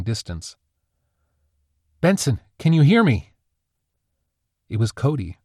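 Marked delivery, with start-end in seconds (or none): 2.0-3.3 louder, higher urgent call. A narrator's reading. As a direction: call out to reach a dazed friend. Friend calls out to Benson.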